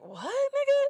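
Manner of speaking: high-pitched disbelieving "what"; incredulous retort. Retold or imitated. Woman retelling her comeback to the man, incredulous.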